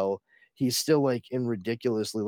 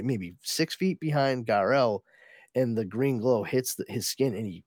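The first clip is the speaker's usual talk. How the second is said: normal talking voice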